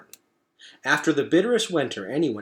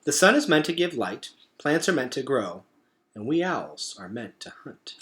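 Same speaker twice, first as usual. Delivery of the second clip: owl lecturing. Acted. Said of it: "Swooper's turn to lecture".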